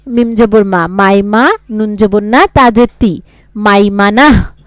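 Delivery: slow letter-by-letter Quran spelling. Shown as a demonstration. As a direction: spell each letter then join the syllable. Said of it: "বুঝছেন?".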